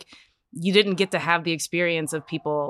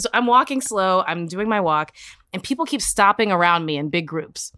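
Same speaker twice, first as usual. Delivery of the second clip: ordinary delivery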